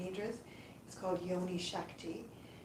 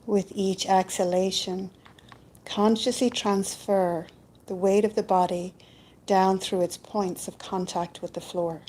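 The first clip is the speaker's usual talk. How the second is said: calm, unhurried meditation voice with long pauses; guided yoga nidra; 9 dB louder than usual. Acted. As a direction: guide them gently into rest, leaving space between phrases. Leads a yoga nidra relaxation.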